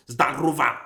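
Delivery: forceful Zdarova with a hard rolled R; fighting-sounding greeting. Shown as a demonstration. Learner finding Russian hello sounds combative, forceful. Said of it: "sounds like I want to fight you".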